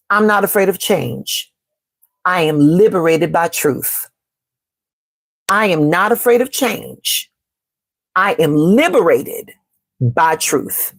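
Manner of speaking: slow, deliberate affirmation read; calm affirmation spoken slowly to the chat. Shown as a demonstration. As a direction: say each word slowly like a mantra. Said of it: "I'm gonna say it slow".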